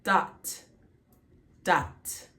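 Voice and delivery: DOT as a single open 'ah' syllable; one syllable. Shown as a demonstration. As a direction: say DOT in one beat, closing on t. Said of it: "it's one syllable".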